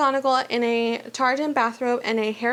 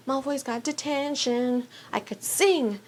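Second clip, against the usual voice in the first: softer, slower gleeful voice; a giddy schoolgirl; gleeful Hermione; 2 semitones higher, 3 dB quieter than usual. Acted. Hermione gleeful after Malfoy caught.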